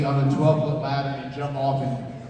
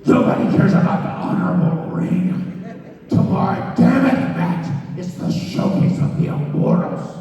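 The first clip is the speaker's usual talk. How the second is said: raised, forceful growling boss impression; Vince McMahon; 5 semitones higher, 4 dB louder than usual. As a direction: imitate an irate boss, loud and emphatic. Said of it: "yelling, 'Why are you having a ladder match".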